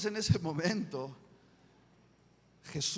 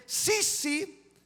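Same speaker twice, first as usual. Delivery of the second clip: put-on servant girl; slower than usual. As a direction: point him out like a young maid. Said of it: "una sirvienta del sumo sacerdote dice".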